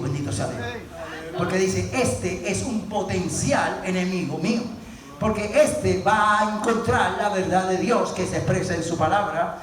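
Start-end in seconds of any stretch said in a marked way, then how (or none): 1.9-9.6 low-pitched mock devil, lightly voiced; the devil speaking. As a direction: lightly act out a devil wary of a rival. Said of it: "el diablo entonces se pone nervioso contigo". (voz grave del diablo, levemente actuada)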